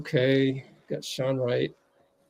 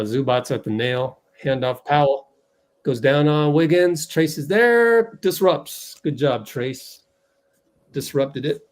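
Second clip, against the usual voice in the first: quick live game call, a touch louder on the action; lightly voiced commentator calling the action; play-by-play call; 3 dB louder than usual. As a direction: call the plays as they happen.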